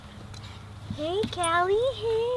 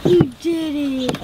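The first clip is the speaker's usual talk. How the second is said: squeaky praising a dog; 2 semitones higher, 6 dB louder than usual. Real, not acted. Praising puppy after climb.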